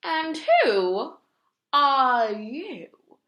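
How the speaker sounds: high, loud demanding question; loud duke question. A narrator's reading. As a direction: demand an answer, pointing. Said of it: "the Duke said".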